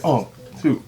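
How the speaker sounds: talking with hair in mouth; spitting out stray hair mid-word. Real, not acted. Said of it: "I got some hair in my mouth".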